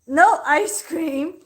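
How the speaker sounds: slow mock stern voice; imitating husband. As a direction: drag it out like him. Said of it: "Scribble said".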